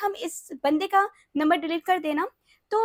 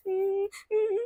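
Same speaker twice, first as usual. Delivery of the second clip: imitated whimpering sobs; 3 semitones higher than usual. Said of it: "हम्म, ऐसे करके मैं रो रो के".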